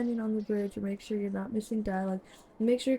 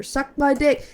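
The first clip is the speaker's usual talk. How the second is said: shouting; 4 semitones higher, 7 dB louder, slower than usual. Real, not acted. Shouting insult at game character.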